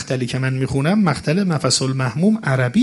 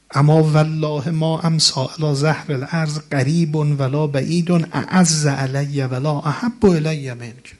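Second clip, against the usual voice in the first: recitation; slower than usual. Acted. Recites Arabic ziyarat text.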